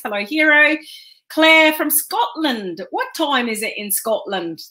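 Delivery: a clumsy, slowed-down attempt at a Scottish accent; lightly put-on Scottish accent, deliberately bad. Greeting a viewer from Scotland in a bad Scottish accent. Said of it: "That was a really bad version of an accent".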